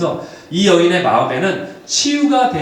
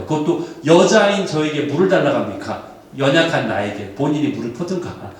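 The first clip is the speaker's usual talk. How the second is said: mildly hostile acted retort; voiced cynical objection, falling away; resentful, cynical; 3 semitones lower than usual. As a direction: push back with a touch of scorn. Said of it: "굉장히 심한 반감이 느껴지는 말투이지 않습니까".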